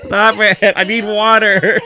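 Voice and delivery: laughing through the words; breathless giggly pleading. Real, not acted. Laughing fit, tummy hurts.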